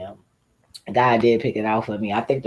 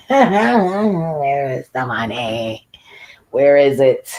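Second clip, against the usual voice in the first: louder, drawn-out demand with a laugh; 5 dB louder, much slower than usual. Shown as a demonstration. Asking the city where the money went, louder and drawn out. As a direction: stretch it out, half laughing, louder. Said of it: "Where's the money".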